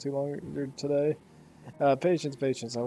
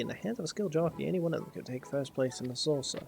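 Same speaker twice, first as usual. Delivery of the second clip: playful, formal banter over the birds; lightly acted game characters. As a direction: lightly voice a schemer and a proud official. Reads game characters' banter aloud.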